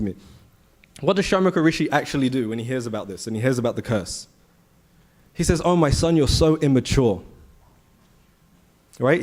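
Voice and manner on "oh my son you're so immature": mild retold scolding, slowing at the end; chastising. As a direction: voice a father reproving his son. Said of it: "He chastises his son".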